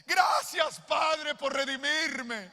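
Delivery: loud, high, slow retold cry to God; a hint of retold sobbing, shouted high; tearful prayer. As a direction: pour it out like a weeping thank-you. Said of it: "y en llanto, llorando".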